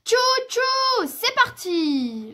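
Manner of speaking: high, loud train hoot, final word drawn out; playful train cry. A narrator's reading. Papa bear pulling the sledge, shouting playfully like a train. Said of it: "tire la luge en criant".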